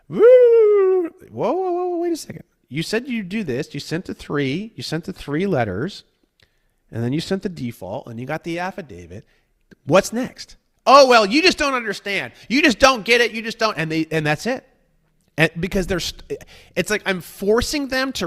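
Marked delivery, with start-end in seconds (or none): 0.1-10.6 startled whoa. Retold or imitated. Himself stopping the client. 10.9-13.8 higher and louder, dismissive sing-song; smug evasive purist. Retold or imitated. Purist evading.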